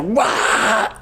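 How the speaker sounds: high mock screech; drawn-out "wah" yowl; imitated cat scream. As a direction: imitate a screaming cat, not at full volume. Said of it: "he screams. The cat is fucking screaming".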